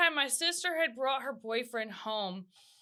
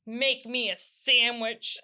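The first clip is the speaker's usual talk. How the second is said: sassy demand; 3 semitones lower, slower than usual. Retold or imitated. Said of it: "he just gets sassy".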